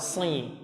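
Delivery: si said softly with a heavy emphatic s; shad sound demo. Shown as a demonstration. Teacher shows students how shad should sound. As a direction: press the tongue up and say si. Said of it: "Maka keluar seperti itu suaranya".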